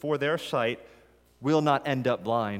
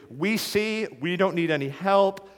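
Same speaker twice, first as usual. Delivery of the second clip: louder, higher, smugly self-assured; proud Pharisees; 6 semitones higher, 3 dB louder than usual. Acted. Pharisees dismissing Jesus, smug and louder. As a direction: brush Jesus off, sure of yourself.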